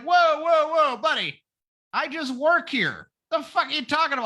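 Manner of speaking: high, startled protest; a butler squawking in disbelief; indignant butler. Retold or imitated. Butler refusing to raise kid.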